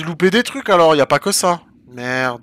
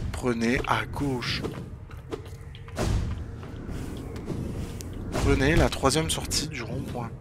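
GPS voice; 3 semitones lower, 7 dB quieter than usual. Pretend. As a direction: read it like a sat-nav. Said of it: "mon guide du routard".

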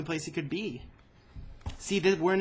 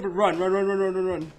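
yelling while running away; 3 semitones higher, 7 dB louder than usual. Real, not acted. Urging while chased.

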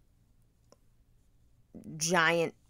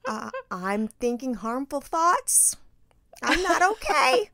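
mock distress; 7 semitones higher, 3 dB louder, slower than usual. Dramatic distress to husband.

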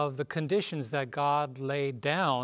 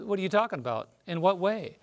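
indignant retort; 4 semitones higher, faster than usual. Retold or imitated. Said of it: "They said".

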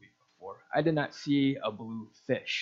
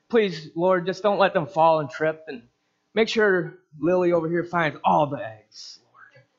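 lightly hammed-up pleading prayer, higher and louder; mock earnest prayer; 4 semitones higher, 5 dB louder than usual. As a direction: plead with the Lord as if egg hunting were grave. Mock prayer over egg hunt.

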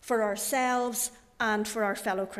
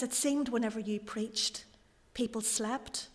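gently sad; 6 dB quieter than usual. Acted. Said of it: "looked at him quite sadly".

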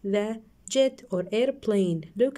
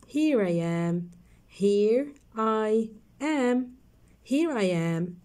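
slow reading; slower than usual. Shown as a demonstration. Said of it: "Let's read the sentences".

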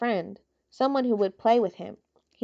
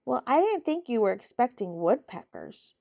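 bitter; 3 semitones higher than usual. Acted. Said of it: "said Wilbur bitterly".

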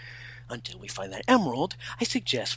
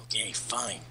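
much softer grudging give-in; 4 semitones lower, 11 dB quieter than usual. Acted. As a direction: give up quietly. Grudging character surrender.

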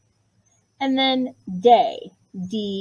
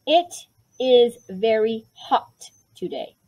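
slow dictation; slower than usual. Shown as a demonstration. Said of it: "Okay, so here we go".

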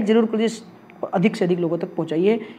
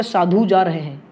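slow model; slower than usual. Shown as a demonstration. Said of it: "पाँच जा रहे हो तो आप क्या बोलोगे".

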